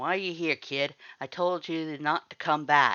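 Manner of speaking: gruff guarded growling. Sans confronts someone who came back after being told not to; growling Sans voice. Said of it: "Someone frowned at you from beneath the archway, his hands stuffed into the pocket of his blue hoodie. / his hands stuffed into the pocket of his blue hoodie. / Someone growled at someone else".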